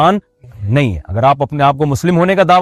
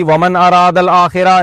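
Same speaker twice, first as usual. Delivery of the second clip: Quran recitation; slower than usual. Acted. Quoting a Quranic verse in Arabic.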